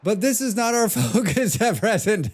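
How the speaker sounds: put-on high-pitched little boy, breaking into laughter; small boy voice. Shown as a demonstration. Streamer demoing a voice on game dialogue, laughing small boy voice. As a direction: pipe up like a small boy, then crack up. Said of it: "Let me do my small boy voice".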